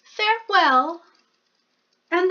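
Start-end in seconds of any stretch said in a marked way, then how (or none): 0.0-1.0 a tiny mouse politely angling for tea; polite little mouse. Acted. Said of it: "said the mouse".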